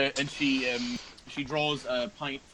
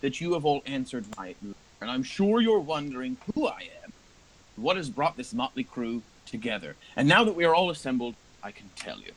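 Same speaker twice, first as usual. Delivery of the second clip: put-on old patron addressing the party; 4 semitones higher, 3 dB louder than usual. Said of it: "And he says".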